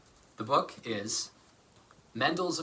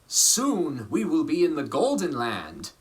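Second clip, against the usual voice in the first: hopeful musicians; 2 semitones higher, 5 dB louder, slower than usual. Acted. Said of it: "they said".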